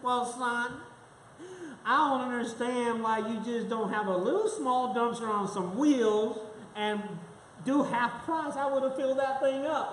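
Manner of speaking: lightly voiced old granny; a hint of an old lady talking; grandma voice. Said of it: "here goes my grandma voice".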